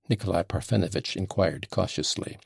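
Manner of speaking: ordinary delivery, nothing marked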